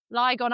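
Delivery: Lygon with a long "eye" in the first syllable; habitual mispronunciation. Real, not acted. Podcast host thanking tour sponsors, mispronouncing Lygon as LIE-gon. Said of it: "I always say Lygon".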